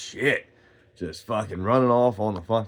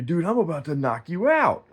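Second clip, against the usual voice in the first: imitated threat; 8 semitones higher than usual. Other man threatens him in quarrel.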